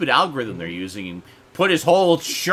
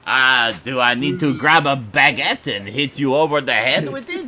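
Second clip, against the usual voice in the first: hammed-up French accent, louder on the Ah; a lightly put-on French accent, teasing; bad French accent; 4 dB louder than usual. Host teases the French co-host, bad French accent. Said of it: "That is the worst French accent".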